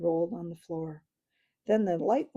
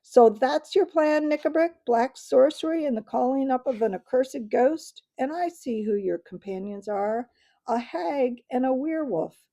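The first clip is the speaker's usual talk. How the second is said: much louder, higher, furious accusation; like thunder; 5 semitones higher, 7 dB louder than usual. Acted. King denounces the dwarf's plot, thundering loud. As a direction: thunder it at the traitor. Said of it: "rose the voice of King Caspian like thunder".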